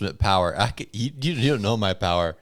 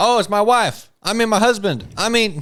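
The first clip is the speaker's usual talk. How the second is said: pitch much higher, fumbling and tripping over words; 11 semitones higher, 4 dB louder than usual. Mocking how Biden gets confused while joking about impersonating him: imitating Joe Biden. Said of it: "He's like".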